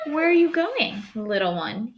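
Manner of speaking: butter her up like a sly wolf; pleasant wolf voice. Acted. Sly wolf sweetly greets the girl, pleasant. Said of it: "in his most pleasant voice".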